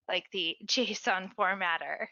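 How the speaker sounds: real stifled laugh while explaining. Real, not acted. Presenter to webinar audience as dog hides under desk, laughing. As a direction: talk slowly through a laugh. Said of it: "Sorry, I'm laughing".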